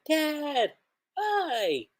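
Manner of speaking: put-on high, bright child greeting his father; child calling out to dad; little kid voice. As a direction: pitch way up like an excited young son.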